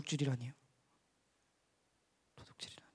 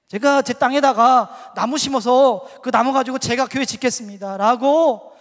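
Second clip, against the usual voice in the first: loud, high, slow declaration; retold resolve at full preaching force; defiant vow; 5 semitones higher, 16 dB louder, slower than usual. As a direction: proclaim each phrase forcefully, drawing out the ends.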